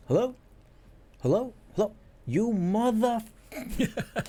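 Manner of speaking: mock the boss losing it on the phone; imitated angry yelling. Boss on the prank call, furious hello.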